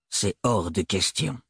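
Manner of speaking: low, quiet, firm; flat refusal. Acted. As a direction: refuse coldly. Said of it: "déclara Thorn".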